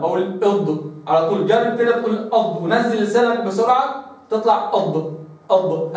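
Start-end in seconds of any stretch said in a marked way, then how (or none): 4.3-5.9 أض released with a quick bounce, tongue dropped fast; faulty bounced dad. Shown as a demonstration. Teacher showing students the wrong bouncing أض. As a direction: snap أض off with a jolt. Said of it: "هكذا تقلقل".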